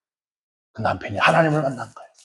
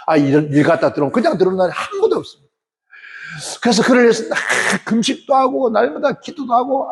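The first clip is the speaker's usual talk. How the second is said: usual speaking voice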